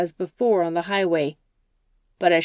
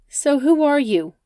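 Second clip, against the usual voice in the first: higher, louder wary question; wary Rachel; 8 semitones higher, 5 dB louder than usual. Acted. Rachel questions the driver who picked her up, wary. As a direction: probe the stranger cautiously.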